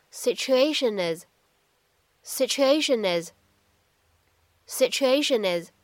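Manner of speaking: "situation is" linked smoothly into one word; "situation is" glided together with no break; linking. Shown as a demonstration. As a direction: run the n of "situation" straight into "is". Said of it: "我们呢可以读成是".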